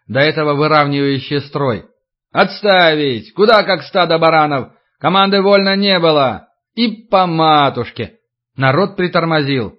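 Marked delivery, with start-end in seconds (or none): 2.3-8.1 shouting drill sergeant. Acted. Older men shout at crowd.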